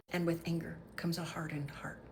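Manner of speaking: soft whispered ending; whispered warning. Real, not acted. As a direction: breathe it out as a warning. Whispered conclusion.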